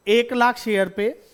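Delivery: slow, each word spaced for the class; lingering on लाख, stretched पे; slow emphatic repeat. Shown as a demonstration. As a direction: spell it out slowly so nobody misses it. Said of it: "फिर से बोलूं".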